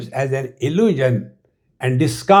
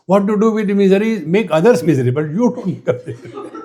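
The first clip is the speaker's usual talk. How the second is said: playful laughing; 5 semitones higher, faster than usual. Real, not acted. Playful joke about misery.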